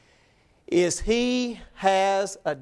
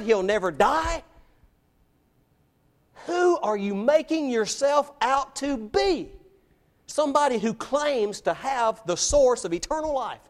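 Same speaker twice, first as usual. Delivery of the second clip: indignant challenge, pitched up; incensed; 4 semitones higher than usual. Acted. Crowd challenging Jesus's claim to eternal life, incensed. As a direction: press the accusation in disbelief, voice raised high. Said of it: "They were incensed".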